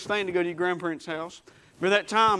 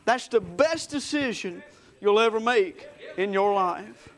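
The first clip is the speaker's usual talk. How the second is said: grandmother crying; 2 semitones higher, slower than usual. Retold or imitated. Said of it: "crying and said".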